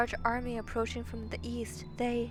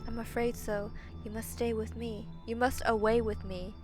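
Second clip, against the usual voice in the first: soft, restrained plea; grave monster urging; 7 dB quieter than usual. Acted. Monster begs princess to come away, grave. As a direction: urge quietly and solemnly.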